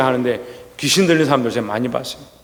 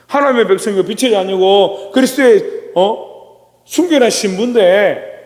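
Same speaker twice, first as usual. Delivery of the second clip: lamenting; 4 semitones higher than usual. Acted. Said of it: "한탄하는 거예요".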